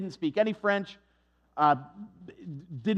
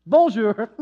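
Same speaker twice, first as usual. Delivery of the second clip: louder, insistent French bonjour; French greeting; 3 semitones higher, 9 dB louder than usual. Retold or imitated. Shopkeeper insists on a bonjour from the rude customer. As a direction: keep greeting until he gets it.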